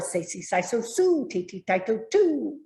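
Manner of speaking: put-on punchy over-articulated "Baby, Bible, boo"; consonant drill. Shown as a demonstration. Teacher demonstrating a diction warm-up to learners, exaggerated articulation. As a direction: pop every b with the lips. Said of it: "maybe I say".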